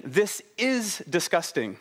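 "is" held as a stated fact; slow, weighty "is"; stress on IS. Shown as a demonstration. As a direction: lean on "is". Quotes son with stress on is.

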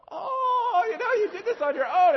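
high, loud, choked-up gush; touched parent. Retold or imitated. Parents moved by their son's love note, loud tearful gush. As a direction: overcome with tearful pride. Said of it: "it was like a real".

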